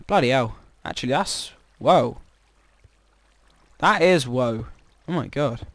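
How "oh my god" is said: ordinary delivery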